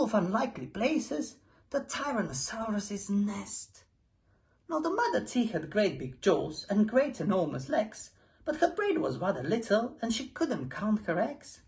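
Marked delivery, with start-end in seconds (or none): none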